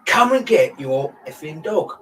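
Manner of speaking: retold shout. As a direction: bellow it slowly across the pub. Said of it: "And I shouted out".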